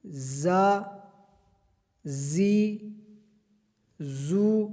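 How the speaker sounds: زا with a sharp whistling hiss on the z. Shown as a demonstration. Teacher drills the whistling زا, hissing z. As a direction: let زا whistle through the teeth. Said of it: "سیٹی کی طرح آواز آنی چاہیے".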